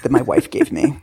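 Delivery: lightly voiced pompous self-help guy; mild mock of a smug epiphany; mocking the author. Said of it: "And then he's like".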